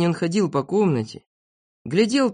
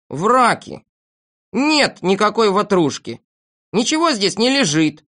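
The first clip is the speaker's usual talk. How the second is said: higher-pitched, firm refutation; indignant denial; 4 semitones higher, 3 dB louder than usual. Acted. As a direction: flatly deny it, voice raised in pitch. Debunks the poem about himself. (возмущённо опровергая)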